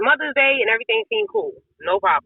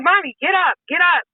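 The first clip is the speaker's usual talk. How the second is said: high-pitched plea to an injured mother; distraught pleading; 7 semitones higher than usual. Retold or imitated. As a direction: relive begging her to get up, voice high. Begging injured mother to get up.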